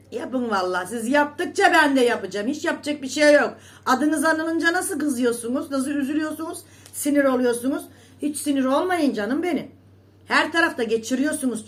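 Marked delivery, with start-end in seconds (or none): 0.9-9.7 louder, higher mocking jabs; heated taunt. Real, not acted. Taunting rivals who get angry, loud and high. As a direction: needle them hard.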